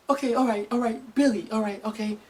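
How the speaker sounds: imitated mom quietly working herself up; building up. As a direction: hold back the anger, hushed. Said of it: "she kept building it up".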